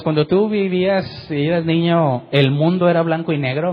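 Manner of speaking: imitación ligera de los hijos, alargando las palabras; imitando a los hijos. Retold or imitated. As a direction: pregunta burlona de niño, lenta. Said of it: "como a mis hijos". (imitando un poco a los hijos)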